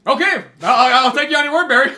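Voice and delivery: half-laughing, fake-gullible; laughing mock trust. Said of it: "this guy's like".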